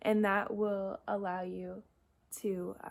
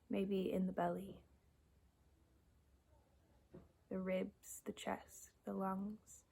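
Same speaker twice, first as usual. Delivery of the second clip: guided meditation. Acted. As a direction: guide them gently into noticing the breath, long pauses between cues. Leads a breathing meditation.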